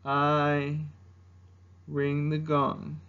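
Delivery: low, slow, deflated dragon; Mushu. Acted. Demoted guardian admitting gong duty, low deflated impersonation. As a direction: admit the humble job reluctantly, dragging it. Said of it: "doing an impersonation of Mushu".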